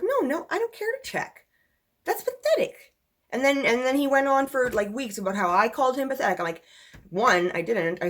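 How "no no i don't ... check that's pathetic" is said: retold dismissal. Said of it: "And I was like".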